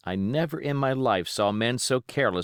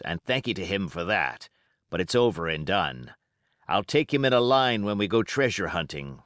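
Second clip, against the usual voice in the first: lightly voiced old sea cook, boastful to his mates; a hint of a cunning pirate rallying the crew; Silver, pirate voice. Silver scheming aloud to crew.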